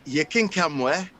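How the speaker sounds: lightly put-on Scottish accent. Inviting Mary along for laughs, Scottish accent. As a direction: do a playful Scot. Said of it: "he does the Scottish".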